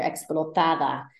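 explotada with the stress on TA. Shown as a demonstration. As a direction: lean on the syllable TA in explotada. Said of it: "the emphasis would normally fall here".

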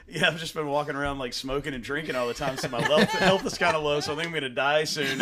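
laughing. Retold or imitated. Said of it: "I'm like".

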